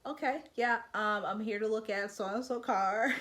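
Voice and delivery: businesslike, no-nonsense greeting; professional and stern. Pretend. Buyer arriving at the dealership, stern and professional. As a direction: keep it flat and serious. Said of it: "Be very professional, be very stern".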